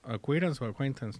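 "Acquaintance" two ways, first like "acquirance", then "a-KWEN-tens"; unsure two-way pronunciation. Shown as a demonstration. Unsure how to say it, asks co-host, two readings of "acquaintance". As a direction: offer two tries at "acquaintance", softly, as if unsure. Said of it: "no sé cómo se pronuncia".

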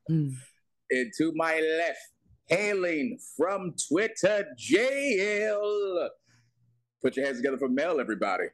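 slow ring announcer intro; grand entrance announcement. Acted. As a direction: drag it out like a boxing announcer. Host introduces second cohost.

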